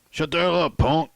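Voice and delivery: loud, high snap at the punk; angry sheriff. Acted. Sheriff yelling at the loud inmate, angry. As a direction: cut him off hard.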